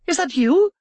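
put-on Erica, frightened young lady. A narrator's reading. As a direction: ask it like a startled noblewoman. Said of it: "she asked".

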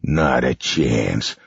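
slow, cold, cruel villain; cruel villain taunt. Acted. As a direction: taunt the kids slowly. Boss voice.

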